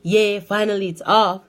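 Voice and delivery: retold gleeful relief; relieved cheer. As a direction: celebrate being free of it at last. Relieved monitor is removed.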